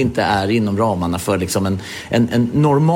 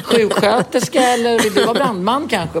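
much higher, teasing sing-song offer; mock eager wife; 9 semitones higher than usual. Wife proposing a sexy costume for Friday, high teasing lilt. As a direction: pitch the costume ideas up brightly.

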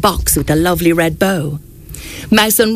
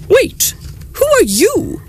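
sudden jump higher on wait; surprised; 13 semitones higher, slower than usual. Acted. Santa counting reindeer and suddenly spots a mouse, startled. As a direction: stop short, startled by a stranger.

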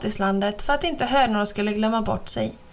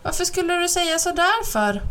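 mild lament; 8 semitones higher than usual. Acted. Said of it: "jämrade sig gubben".

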